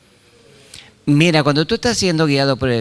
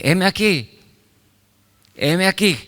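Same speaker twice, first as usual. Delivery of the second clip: put-on higher, eager boy's reply; eager young Samuel; 7 semitones higher than usual. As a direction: answer like a boy jumping out of bed. Young Samuel answering Elí.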